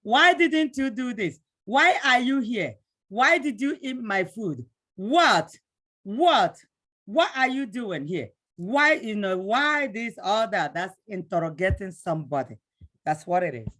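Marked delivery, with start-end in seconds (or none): 0.0-4.6 interrogator. Acted. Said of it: "you're interrogating the person". 4.9-6.6 short loud demanding What; sharp demand. Acted. Teacher playing an interrogator, loud demanding shout. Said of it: "you're interrogating the person". 7.0-10.7 interrogator. Acted. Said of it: "you're interrogating the person".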